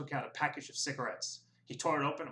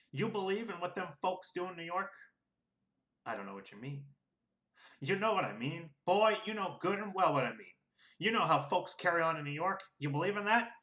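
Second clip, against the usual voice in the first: bullying registrar; 6 semitones higher than usual. A narrator's reading. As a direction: press the black voter hard. Sam interrogates Will.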